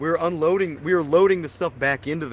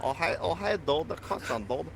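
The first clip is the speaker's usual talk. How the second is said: Vince voice; 2 semitones higher, 7 dB quieter than usual. Retold or imitated. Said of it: "when you go".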